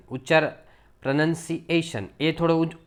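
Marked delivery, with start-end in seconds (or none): 1.0-2.1 પ્રનન્સિએશન with the voice lifted on "AY-shun"; voice raised on "ay". Shown as a demonstration. Teacher modelling the rise, voice raised. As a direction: lift the pitch in પ્રનન્સિએશન at "AY". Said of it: "અવાજ ઊંચો લઈ જવાનો".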